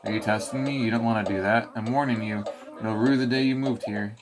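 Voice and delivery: cranky mole ranting; lightly voiced ranting mole; grumpy mole lecturing. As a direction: scold the player like a fed-up mole. Mole lectures the player at length.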